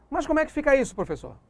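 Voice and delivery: lightly voiced student, starting high and dropping at the end; a hint of a confused student; questioning student. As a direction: pupil piping up with a doubt. Voicing a student's question to teacher.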